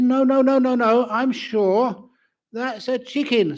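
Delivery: high-pitched wife refusing to budge; squeaky insistent wife. Acted.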